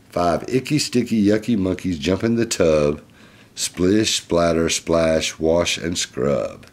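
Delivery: lively, clearly projected picture-book reading; reading to children. Acted. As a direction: read it out to a little listener. Reads picture book aloud.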